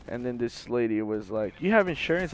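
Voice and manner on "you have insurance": raised-pitch acted question; mock questioning. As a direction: play up her question, pitched high. Hammed-up first version of her question.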